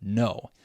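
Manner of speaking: NO set apart and held; stressed last syllable. Shown as a demonstration. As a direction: land firmly on NO as a stressed syllable. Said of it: "the last one is stressed".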